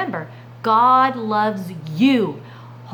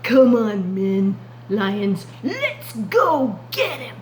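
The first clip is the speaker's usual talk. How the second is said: lion leader; slower than usual. Acted. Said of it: "they might be saying something like this".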